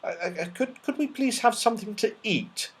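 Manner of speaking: soft, hesitant, stammering ask; timid request. Acted. Joe timidly asking Dame Snap for food, soft and hesitant. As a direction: ask shyly, barely daring to.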